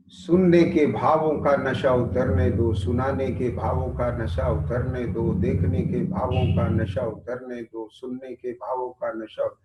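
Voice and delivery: steady chanted rhythm of calm; meditation litany. Real, not acted. Preacher leading a sense-stilling meditation, steady and even. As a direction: intone each sense to stillness.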